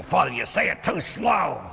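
whiny complaining parishioner. Retold or imitated. Parishioner complaining to the priest, high mock whine. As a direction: mimic a fussy churchgoer griping. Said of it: "And they go".

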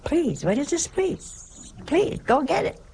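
mock the politeness with a scoff; mocking holler. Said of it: "sisters used to say".

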